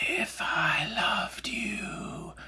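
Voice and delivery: unvoiced, very slow, very quiet hushed whisper. Voice lesson on vocal folds not closing fully: whispered, no voiced tone. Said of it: "If you whisper, you can feel this happening".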